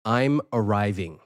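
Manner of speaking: slow, imitated British accent; mock-British announcement, slowed down. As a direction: mimic a British accent, drawing it out. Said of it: "in a British accent".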